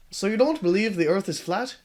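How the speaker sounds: Marty's question redone in his proper voice; corrected Marty voice. Acted. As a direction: retake the line steadier. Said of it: "His accent is changing".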